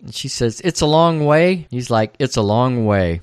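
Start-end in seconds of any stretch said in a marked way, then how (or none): 0.6-1.7 higher voice for the woman; woman's objection. Retold or imitated. 2.2-3.2 lower, matter-of-fact echo; man's concession. Retold or imitated. Man echoes her, conceding.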